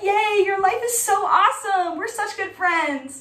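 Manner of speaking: high, bubbly fake cheer; a chirpy celebrity voice, slowing at the end; gushing pop-star voice. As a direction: gush like a sugary pop star. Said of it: "she'll be like".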